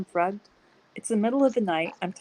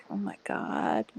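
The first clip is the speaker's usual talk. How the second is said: whispering; 10 semitones lower, 5 dB quieter, slower than usual. Retold or imitated. Worried inner thought quoted.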